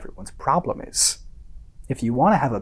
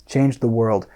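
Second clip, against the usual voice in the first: low-key, dismissive repetition; understated scorn, pitch held down; scornful echo; 3 semitones lower than usual. Acted. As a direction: repeat it with contained disdain. Scornfully repeats the friend's phrase.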